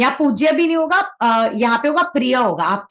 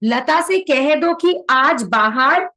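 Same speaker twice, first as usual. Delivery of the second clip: slow reading; slower than usual. Shown as a demonstration. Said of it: "तो इसका क्या होगा".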